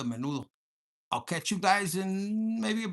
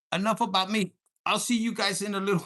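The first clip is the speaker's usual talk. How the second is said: a louder, punchy wrap-up; mildly raised farewell line; loud sign-off; 2 semitones higher, 7 dB louder than usual. Real, not acted. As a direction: announce it like closing the show. Sign-off, repeating exit line.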